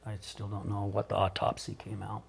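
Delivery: real, softly spoken sorrow; subdued grief. Real, not acted. Man recalling the police call about his ex-wife, quiet grief. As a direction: let the volume sink as the news lands. Recounting his ex-wife's death.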